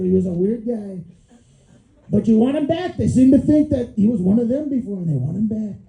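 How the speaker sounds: a hint of Trump, bragging; lightly voiced Trump telling a story; mock Trump boasting to aliens; Trump impression.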